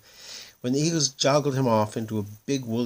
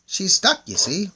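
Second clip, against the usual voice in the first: moon people voice; 11 semitones higher, 8 dB louder than usual. A narrator's reading.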